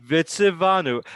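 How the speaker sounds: "Vitzivanu" with a consonant v before "anu"; teacher modelling "Vitzivanu" for a student; model pronunciation. Shown as a demonstration. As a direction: say "Vitzivanu" as one word, vi-tzi-VA-nu. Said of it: "what's tricky about that is".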